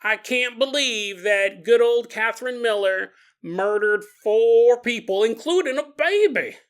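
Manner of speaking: slightly dawdling, lightly voiced old woman; old lady reading news. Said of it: "you read the newspaper and you go".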